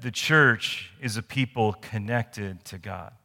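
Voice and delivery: slow, spaced-out dictation for note taking. Shown as a demonstration. Pastor dictating the point slowly to the congregation. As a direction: read it out slowly so they can write. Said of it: "The first thing I want you to write down".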